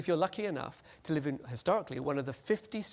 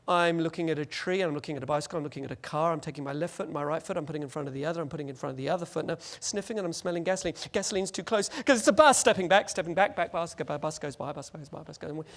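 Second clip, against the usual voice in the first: machine-like running commentary. Pretend. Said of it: "You don't speak like that".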